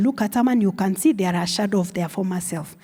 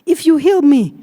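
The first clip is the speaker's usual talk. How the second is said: the plea repeated with more volume, begging God; louder pleading prayer; 5 semitones higher, 6 dB louder than usual. Retold or imitated. Grieving patient bargains with God, louder begging plea. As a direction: push the plea harder and louder.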